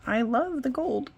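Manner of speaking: hiccuping through "I love the gold"; "gold" cut off by a hiccup. Real, not acted. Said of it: "I got the hiccups".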